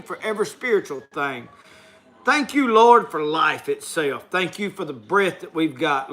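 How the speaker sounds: steady heartfelt spoken prayer; closing prayer for the audience, earnest and steady. Acted. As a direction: pray over the viewers sincerely. Closes the show with prayer.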